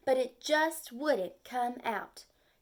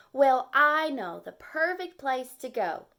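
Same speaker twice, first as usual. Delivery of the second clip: excitedly; 3 semitones higher, 8 dB louder than usual. Acted. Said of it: "he said excitedly".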